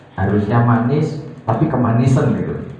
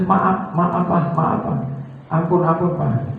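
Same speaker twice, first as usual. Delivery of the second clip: higher, hurried apologies; pleading wife; 6 semitones higher than usual. Retold or imitated. Wife begging her husband's pardon, raised and pleading. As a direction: beg forgiveness meekly.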